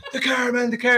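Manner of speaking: imitating the friend's panic about the car, laughing mock panic. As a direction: wail it like a man in a state, laughing.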